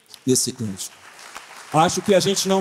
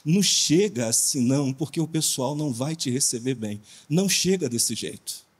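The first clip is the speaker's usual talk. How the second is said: fatherly advice. Retold or imitated. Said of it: "como se estivesse falando com meu filho".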